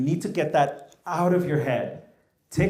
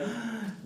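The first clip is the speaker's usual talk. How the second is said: mock gasp; 8 semitones higher, 10 dB quieter than usual. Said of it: "you all are gonna be like".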